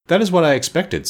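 high-pitched, satisfied reply; lightly pleased sorceress; pleasant. A narrator's reading. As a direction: sound agreeably unsurprised. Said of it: "said Glinda pleasantly".

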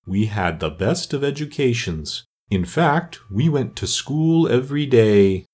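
slow, doleful storyteller, understated; lightly voiced mournful turtle. Mock Turtle resumes his school history, mildly mournful. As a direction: draw the words out with a touch of sorrow.

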